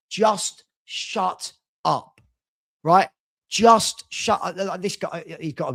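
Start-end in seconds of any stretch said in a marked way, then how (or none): 0.1-3.1 very slow, fed-up "Just shut up"; exasperated. Real, not acted. Fed up with fan arguments. 3.5-4.6 slow, louder "Just shut up"; exasperated. Real, not acted. Fed up with fan arguments.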